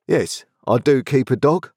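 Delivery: a plain man, firmly offended; indignant Joe. A narrator's reading. Joe answers.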